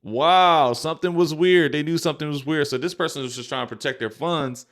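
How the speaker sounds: loud, high, stunned wow; a big, high wow of disbelief. Real, not acted. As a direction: let the shock ring out loud. Stunned by the customer's update.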